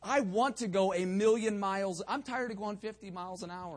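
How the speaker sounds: lifted pulpit voice, punching the opening; earnest, driven exhortation; spirited preaching. Real, not acted. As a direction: press the congregation with energy. Preaching builds.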